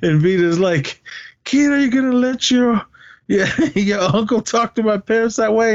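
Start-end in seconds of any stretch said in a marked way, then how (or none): 1.4-5.7 high-pitched indignant complaint; mock scolding. Retelling a girlfriend challenging Kid about his uncle, mock scolding. Acting out Vita scolding her boyfriend.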